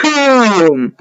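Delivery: long drawn-out, falling boom; showy reveal. Pretend. Gamer revealing an item to viewers, showy. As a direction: stretch it out like a big reveal.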